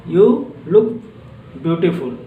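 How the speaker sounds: that's great you stretched out word by word; slow teacher read of that's great you; slow model reading. Shown as a demonstration. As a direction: spell it out slowly for learners. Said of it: "जैसे आपको किसी को example देना है".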